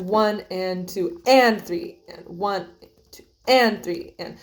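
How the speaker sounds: slow count with accents; slow, accented subdivision count. Shown as a demonstration. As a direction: count one and two and, stressing the pattern. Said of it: "this is kind of more of the accent pattern".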